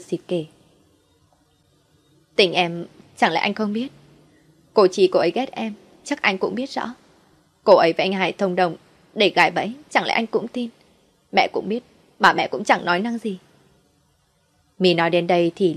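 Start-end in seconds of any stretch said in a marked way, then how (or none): 2.4-13.4 tearful wife. Acted. Wife sniffles while explaining.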